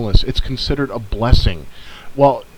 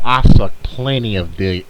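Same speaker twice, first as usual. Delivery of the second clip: put-on hillbilly accent; 5 semitones lower than usual. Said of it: "there I go again with my hillbilly accent".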